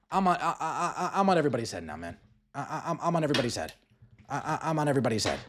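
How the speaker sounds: chuckling through a gleeful boast; laughing. Real, not acted. Vlogger to viewers, laughing at his own bold takes. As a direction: laugh it out, pleased with yourself. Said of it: "laughs at own boast".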